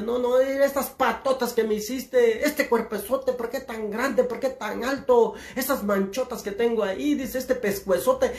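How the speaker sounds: hammed-up indignant complaint; mock annoyed giraffe. Giraffe complaining to God about its body, mock indignation. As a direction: protest each feature, mildly worked up. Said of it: "llegó encabronada la pinche jirafa".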